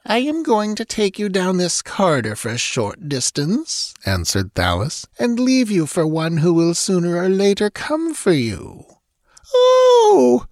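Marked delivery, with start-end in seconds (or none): 0.0-3.9 high, controlled captor's voice; menacing villainess. A narrator's reading. Captor tells her prisoner what awaits, with menace. 5.2-8.8 high-pitched, ominous threat; menacing villainess. A narrator's reading. Captor hints at who will come for her prisoner, menacing. 9.5-10.4 high, loud cry of dread; sob of terror. A narrator's reading. Captive hears her fate, a sob of terror. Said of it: "Natala's voice broke in a sob of terror".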